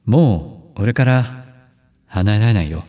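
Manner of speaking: a hint of a romantic drama hero; lightly crooned, trendy drama line; honeyed voice. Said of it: "これ甘い？". (軽めの甘い声)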